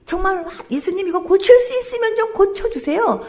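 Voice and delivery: preacher mimics the father's doubtful request, mock-pleading. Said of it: "이렇게 얘기했더니".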